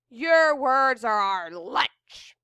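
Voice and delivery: slow mumble through a mouthful; mumbled, mouth full. A narrator's reading. Pirates mumble back with mouths full of words. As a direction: chew the words like lunch. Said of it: "the pirates mumbled with their mouths full".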